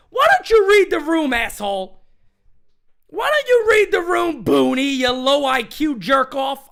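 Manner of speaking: angry rant. Real, not acted. Ranting at Boone.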